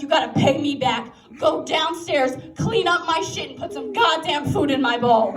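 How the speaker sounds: a hint of a cranky cat laying down the law; demanding cat. Cat ordering its owner around, mildly bossy.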